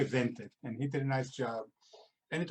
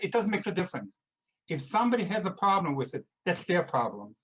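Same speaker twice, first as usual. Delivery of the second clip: louder, rising to a passionate appeal; fervent emphasis; 3 semitones higher, 4 dB louder than usual. Real, not acted. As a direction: declare it proudly, driving every line home. Passionate appeal on the book's message.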